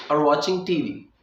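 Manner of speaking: or blended into watching as one sound; linked or. Shown as a demonstration. Teacher demonstrating or merged with watching. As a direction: run or into watching without a break. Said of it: "अर की जो आवाज़ है वो वॉचिंग के साथ add".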